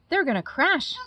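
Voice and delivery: put-on young bat gasping as her friends fall; gasped warning. A narrator's reading. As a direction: gasp it in fear for friends. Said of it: "gasped Stella Luna".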